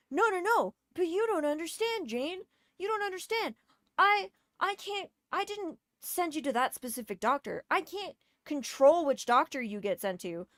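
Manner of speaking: high mocking whine of the doctor; mocking whiny doctor. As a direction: mimic a flustered excuse-maker. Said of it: "mocking family doctor's excuse".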